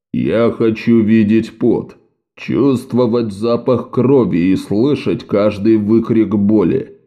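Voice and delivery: slow, heavy brute of a slaver; slow menacing raider. Acted. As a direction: lean into each word like a savage. Kor the raider speaks.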